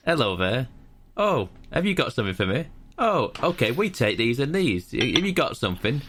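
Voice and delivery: game character's spiel. Retold or imitated. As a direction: act out a chirpy scripted routine. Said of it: "it will be the spiel of".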